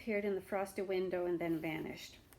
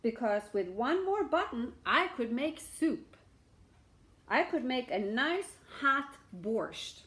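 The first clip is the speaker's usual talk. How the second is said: louder, coaxing pitch; enticing beggar; 3 semitones higher, 6 dB louder than usual. Acted. Beggar tempting the shamus, coaxing. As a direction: sell the soup idea.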